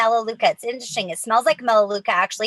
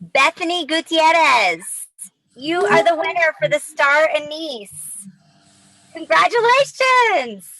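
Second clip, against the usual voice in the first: higher, slower winner call; hyped giveaway announcement; 4 semitones higher than usual. Real, not acted.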